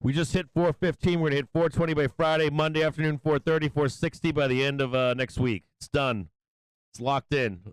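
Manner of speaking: retold bullish hype, fast at first; excited bulls. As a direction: ham up the overconfident bull trader. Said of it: "They're like".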